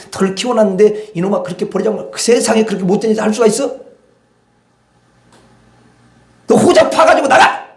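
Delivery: put-on scold, then explode at the child; a furious parent throws the child out, scolding into a shout; angry parent building to shout.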